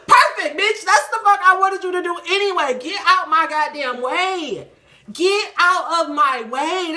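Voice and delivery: loud, high, laughing God voice; a cackling, triumphant God shouting at her; hammed-up laughing God; God's voice, cackling. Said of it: "I hear God saying".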